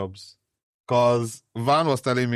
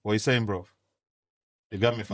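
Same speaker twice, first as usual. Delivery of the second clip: put-on British accent; much faster than usual. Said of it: "Nigerian uncles trying to put on a British accent".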